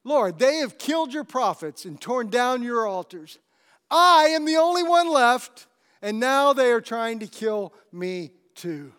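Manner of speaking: high, loud desperate complaint; complaining Elijah. Acted. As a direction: cry out to God that you're alone. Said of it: "complained to God".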